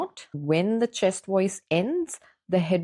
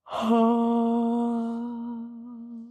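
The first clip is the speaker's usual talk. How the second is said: yawning sigh; 6 semitones higher than usual. Shown as a demonstration. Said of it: "hum before the yawn and after".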